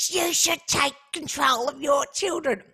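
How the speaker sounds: snooty, slow Karen scolding; imitating a rude Karen lecturing a mum; worst Karen voice. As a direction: talk down like an entitled Karen. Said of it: "in the worst Karen voice".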